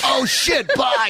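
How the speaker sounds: high sing-song oh shit bye; sing-song oops. Retold or imitated. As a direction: sing it like a guilty goodbye. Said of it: "he hung up and goes".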